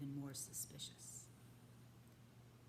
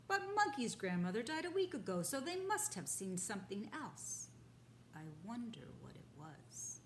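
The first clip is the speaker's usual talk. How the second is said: a boar working out the mystery; puzzled boar; 2 semitones higher, 3 dB louder than usual. Acted. Boar puzzling over the monkey sighting, wondering.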